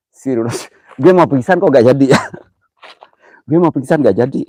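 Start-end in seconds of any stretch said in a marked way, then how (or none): 3.5-4.4 laughing. Real, not acted. Laughing at himself.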